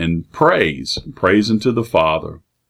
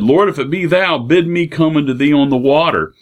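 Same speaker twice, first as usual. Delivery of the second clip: Peter calling out; 6 semitones higher than usual. Retold or imitated. Peter calls to Jesus on water.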